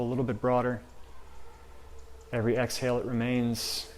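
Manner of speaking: calm, measured guidance with long pauses; guided meditation. Real, not acted. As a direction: gently lead them inward, softening as you go.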